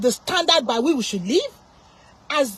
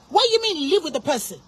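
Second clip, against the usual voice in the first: indignant question near usual pitch; indignant challenge. Real, not acted. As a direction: question the advice in disbelief, restrained. First indignant challenge to the advice.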